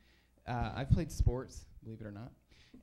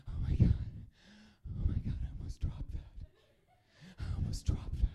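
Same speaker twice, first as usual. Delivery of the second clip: mock panic; 4 semitones higher than usual. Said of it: "and you're like".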